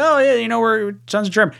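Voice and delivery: high-pitched mock family boasting; proud relatives, imitated. Host imitating his German-obsessed family, high mock pride.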